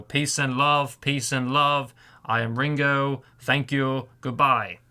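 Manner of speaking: lightly voiced Liverpool drummer impression. Shown as a demonstration. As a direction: give a light take on a famous band's drummer. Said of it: "making voices for Ringo".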